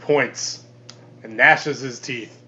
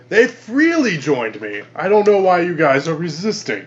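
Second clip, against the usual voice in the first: lightly posh, measured and a touch higher; posh accent; 4 semitones higher, 4 dB louder than usual. Acted. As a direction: address them in a deliberate posh accent. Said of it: "does he have the posh accent?".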